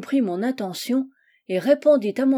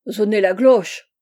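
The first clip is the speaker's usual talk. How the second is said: put-on loud German-accented taunt; mock German accent; 8 dB louder than usual. Monster mocking the host's threat, German accent. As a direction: harden and muddle the French, German-style.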